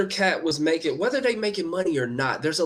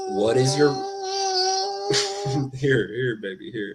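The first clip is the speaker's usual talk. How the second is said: choked up. Real, not acted. Tearful, soothing child.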